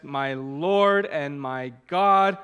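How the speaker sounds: slow, bold and joyful; bold joyful confession. Acted. Preacher voicing Thomas, bold and joyful. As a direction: proclaim it slowly with joy. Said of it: "boldly and joyfully confessed".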